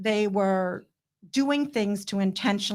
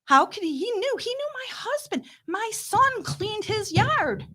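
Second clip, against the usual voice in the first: emotional outburst; 10 semitones higher than usual. Real, not acted. Recalling how the governor betrayed her family, high and emotional. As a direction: pitch up high, voice straining with hurt. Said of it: "I get very emotional about this".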